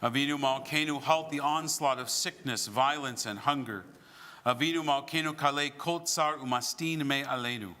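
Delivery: chanted Hebrew prayer line; prayer leading. Real, not acted. Rabbi leading the Avinu Malkeinu, solemn prayer. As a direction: lead the congregation in prayer.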